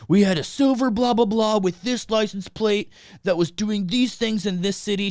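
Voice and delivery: high mock-official recital; police officer impression. Officer telling the mom about the van, mock-official. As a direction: rattle off an accusation as the officer. Retells police making accusation.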